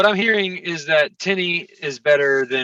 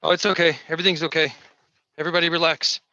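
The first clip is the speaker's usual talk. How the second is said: robot voice; much faster than usual. Real, not acted. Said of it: "Did I go robot?".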